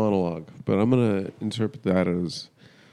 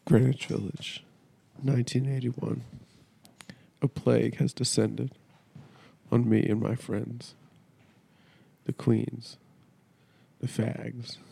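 mournful theatrical speech, lightly played; grand tragic wailing. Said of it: "I'm gonna do a dramatic monologue".

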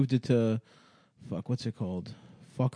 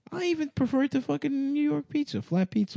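high-pitched; 13 semitones higher, 6 dB quieter than usual. Real, not acted. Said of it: "the registers you hit on that wild ass take".

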